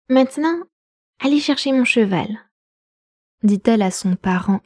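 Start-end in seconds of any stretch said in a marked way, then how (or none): 0.1-2.3 haughty order. A narrator's reading. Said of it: "comme si elle avait parlé à un des petits palefreniers".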